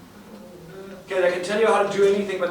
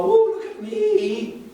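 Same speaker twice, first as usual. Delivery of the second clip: much higher, slow, laughing show-off whoop; mock rock star; 5 dB louder, much slower than usual. Mocking the rock star entrance he never made, hammed-up. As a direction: ham up a cocky rock star strutting on stage. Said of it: "like a friggin' rock star".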